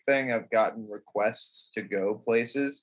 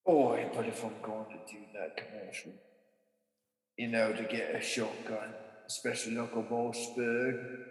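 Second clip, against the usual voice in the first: mock salesman; 7 dB quieter than usual.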